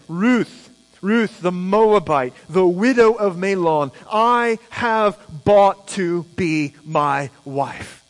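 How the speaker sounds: slow, savouring reading of the vow; scripture reading. Acted. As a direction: linger on each phrase of the promise. Rereads Boaz's words.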